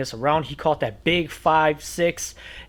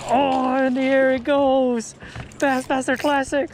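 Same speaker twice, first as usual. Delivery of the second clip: high hyped announcer call; 9 semitones higher than usual. Pretend. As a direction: call it like a tournament host. Mock tournament announcer call.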